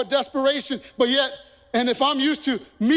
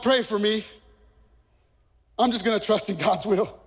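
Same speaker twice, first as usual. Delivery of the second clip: imitating a passive prayer; 5 semitones lower than usual. Preacher mocks the congregant's passive prayer, lower and resigned. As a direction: shrug it off like a half-hearted believer. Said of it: "That is absolutely not being real at all".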